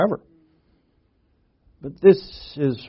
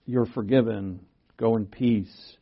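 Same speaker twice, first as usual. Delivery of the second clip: softer, slow tender blessing; gentle; 4 semitones lower, 4 dB quieter than usual. Retold or imitated. Preacher voicing the Lord blessing the forgiven woman, softly tender. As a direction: say it gently, taking your time. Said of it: "He says to her".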